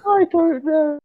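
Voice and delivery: very high, loud helpless squeal; laughing. Real, not acted. Co-host asks what the podcast has become, helpless squealed laughter. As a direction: wail it through laughter. Helpless after the failed impression.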